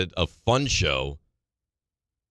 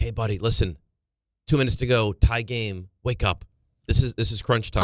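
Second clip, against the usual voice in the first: plain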